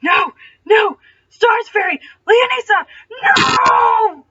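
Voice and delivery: high, loud anguished screams; screaming. A narrator's reading. Legolas on the floor screaming for his lost love. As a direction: howl the name in anguish. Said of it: "shaking his head and screaming".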